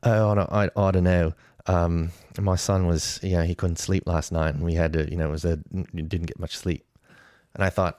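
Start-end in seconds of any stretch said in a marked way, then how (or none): 0.0-6.8 put-on light Australian accent on a tired coworker; lightly imitated Australian coworker. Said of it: "I'll try to do the accent".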